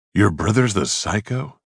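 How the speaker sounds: hoarse, raspy rasp. Acted. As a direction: rasp it out weakly. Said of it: "I rasped".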